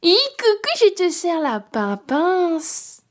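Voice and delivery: put-on high, cooing baby talk to the cat. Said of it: "ma voix de bébé". (voix de bébé aiguë pour parler au chat)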